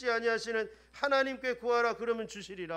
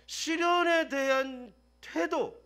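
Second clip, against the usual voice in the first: slow emphasis; 5 semitones higher, 4 dB louder, much slower than usual. Real, not acted. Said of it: "emphatic slow phrase".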